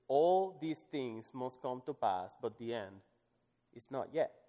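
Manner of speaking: slowed, stress on all; scripture reading. Acted. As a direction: read with weight. Reads scripture aloud.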